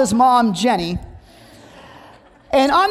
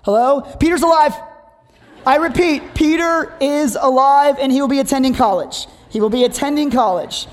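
announcing reassurance; 3 semitones higher than usual. Retold or imitated. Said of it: "I reassured the outcome first".

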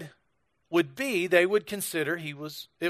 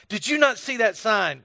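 lightly imitated Scottish scolding, pitched up; a touch of indignant Scottish accent, higher; mean Scottish accent; 4 semitones higher, 3 dB louder than usual. Scottish woman challenges a tourist, mildly mean mock accent. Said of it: "really mean William Wallace-sounding Scottish accent".

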